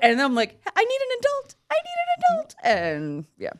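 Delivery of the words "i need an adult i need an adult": tiny, very high squeaky voice; high-pitched mock distress; mock helpless plea. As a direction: squeal it like a helpless little kid. Acted panicked plea to stranger's catcall.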